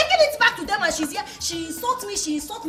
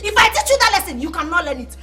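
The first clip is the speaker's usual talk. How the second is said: the repeat pushed out harder and louder; raised threatening repeat; louder warning; 5 dB louder than usual. Acted. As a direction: lean on the threat the second time.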